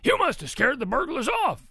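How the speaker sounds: high, loud amazed declaration; roaring Papa pig. A narrator's reading. Papa pig credits Ruby with scaring burglars, roaring. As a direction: boom it out, impressed. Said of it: "he roared".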